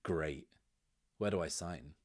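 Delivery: dry, sarcastic retort. Acted. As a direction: toss it off flippantly. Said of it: "kind of sarcastically says".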